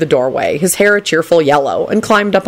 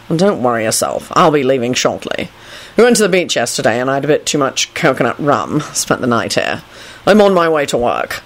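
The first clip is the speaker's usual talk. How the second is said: lower, dry man's voice; composed Kingsley; 3 semitones lower than usual. Acted. Kingsley explains himself to Neville, low and curt. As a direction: play an unruffled, curt official.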